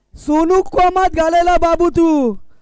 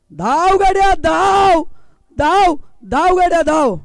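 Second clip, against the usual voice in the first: raised urgent call to run; urging run; 2 semitones higher than usual. Real, not acted. Commentator urging the batsman to run, raised and urgent.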